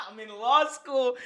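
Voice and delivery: high, slow words through laughter; helpless giggly read; laughing. Real, not acted. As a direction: crack up while reading it out. Cracking up at a chat message.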